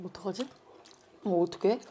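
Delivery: talking while chewing; muffled by food in mouth; mouth full of sushi. Real, not acted. Seen 0: Bites big roll at start, then talks holding it, likely chewing.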